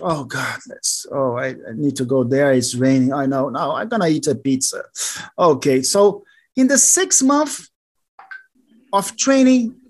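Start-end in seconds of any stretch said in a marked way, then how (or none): 0.0-4.8 reluctant whining. Retold or imitated. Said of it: "Third month".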